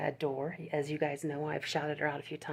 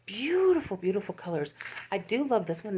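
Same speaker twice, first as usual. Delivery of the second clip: gushing; 3 semitones higher, 5 dB louder than usual. Real, not acted. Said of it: "gushing over yarn colors".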